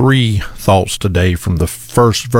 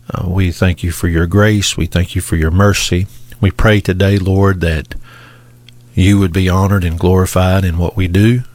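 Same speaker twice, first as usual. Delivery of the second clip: prayer; 2 semitones lower than usual. Acted. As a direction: pray humbly to the Father. Pastor leads opening prayer.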